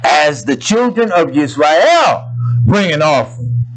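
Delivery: measured solemn recitation; scripture reading. Real, not acted. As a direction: read the verse with preacher's weight.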